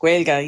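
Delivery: Gaeilge said as GWAYL-guh; Irish word said. Shown as a demonstration. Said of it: "It's just Gaeilge le Amanda Jane".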